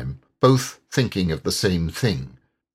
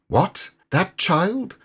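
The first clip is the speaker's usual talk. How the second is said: lightly; 11 semitones higher, slower than usual. A narrator's reading. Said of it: "said the mole lightly".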